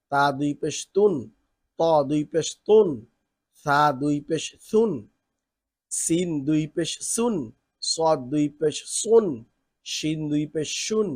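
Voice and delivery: chanted letter-by-letter spelling, rising on each syllable; recitation drill. Shown as a demonstration. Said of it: "চলেন শুনি". (সুর করে বানান পড়ে শোনানো)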